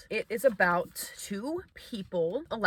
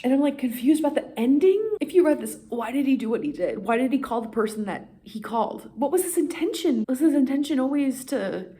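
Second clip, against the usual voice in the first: exasperated rant; 5 semitones higher, faster than usual. Real, not acted. Confused ranting about ending.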